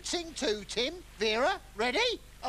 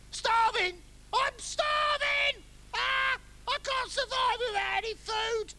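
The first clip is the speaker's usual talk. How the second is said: hammed-up panic; 12 semitones higher than usual. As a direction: overplay starving castaway despair. Castaway panics about food.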